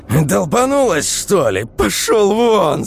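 high, loud furious scream. Acted. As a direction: drive him out of the room. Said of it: "закричала она".

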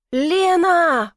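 loud, high anguished cry of her name; groaning call. A narrator's reading. Man moans Lena's name through the door. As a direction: moan her name in despair. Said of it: "простонал я".

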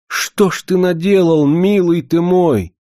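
high, loud lament; anguished cry. A narrator's reading. Annushka reproaching her beloved, crying out. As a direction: cry out to the beloved, pitch well up. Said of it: "закричала Аннушка".

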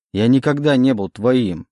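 angry denial. Acted. Oleg denies belonging to the demon, stressing никогда. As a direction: hit никогда hard.

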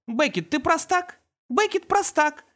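put-on high child voice, gladly agreeing; eager little boy. Toddler eagerly agrees with his twin, high voice. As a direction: chirp it back happily like a toddler. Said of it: "с готовностью подтвердил малыш".

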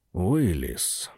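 soft, musing call of the name; thoughtful. Acted. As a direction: say the name slowly, lost in thought. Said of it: "задумчиво произнёс Аарон". (задумчиво, тихо)

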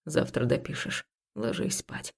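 hushed, voiceless bedtime order; whispering. Acted. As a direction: whisper it gently but firmly. Man insists she sleeps.

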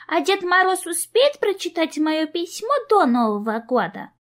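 put-on high, worried child voice; worried little girl. A narrator's reading. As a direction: ask anxiously like a little girl. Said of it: "Обеспокоенно нахмурилась она".

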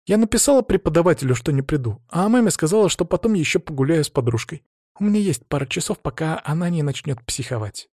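put-on a teen girl telling her dad what happened; hint of a hurt young daughter; teenage daughter. Tonya confesses.

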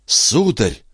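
startled, halting "Сударь!"; astonished stammer. Acted. Молодой человек изумлённо лепечет, вскрикивая в удивлении. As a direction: blurt it out, caught off guard. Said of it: "в изумлении пролепетал".

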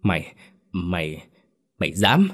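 stunned halting mumble; stammering in shock. Acted. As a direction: barely get the words out, aghast. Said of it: "chỉ có thể ú ớ".

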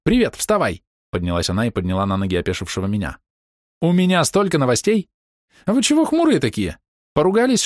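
bursting with news, rattle it out; overjoyed girl greeting friends; bubbly excitement. Acted.

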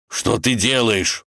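slow, puzzled question; surprised. Acted. Wolf watches Ivan swing on the root, surprised. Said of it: "удивился волк".

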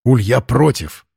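slow, strained and hoarse; hoarse-voiced. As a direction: croak the protest out. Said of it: "севшим голосом".

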